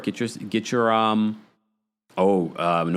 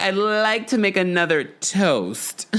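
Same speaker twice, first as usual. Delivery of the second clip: slow, drawn-out toast voice; mock tipsy toast; 4 semitones higher, slower than usual. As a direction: raise a glass a bit too grandly. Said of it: "She was like".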